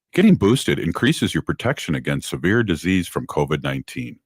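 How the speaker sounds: steady radio announcement read. Acted. Radio host reading a covid vaccine ad, steady announcer read. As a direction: read it like a public service spot. Recorded public health ad.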